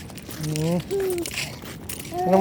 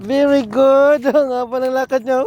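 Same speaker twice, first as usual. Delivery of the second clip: delighted praise; 5 semitones higher than usual. Real, not acted. Cheering toddler's long walk.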